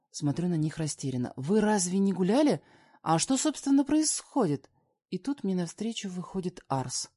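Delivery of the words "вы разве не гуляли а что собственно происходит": higher and louder, bewildered; rising, confused, raised voice; baffled questions. Acted. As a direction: demand to know what's going on. Confused questions to fleeing woman.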